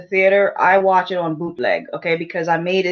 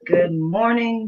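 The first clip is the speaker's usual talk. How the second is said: plain; slower than usual. Shown as a demonstration. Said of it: "drawn greeting".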